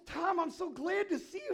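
high, loud, sugary greeting; sweet teacher. Retold or imitated. Teacher greets the boy in a high, loud, sugary voice. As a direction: greet him too sweetly. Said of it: "She goes".

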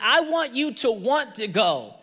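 emphatic retold insistence; imitating wife. Wife repeats what she wants from husband, insistent. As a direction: insist lightly as the wife, leaning on WANT. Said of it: "This is how she said it".

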